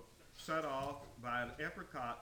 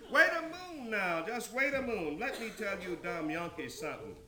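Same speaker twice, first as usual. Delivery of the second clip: high, loud interruption; loud objection; 5 semitones higher, 6 dB louder than usual. Acted. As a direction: cut in sharply to halt the talk. Character cuts in to object.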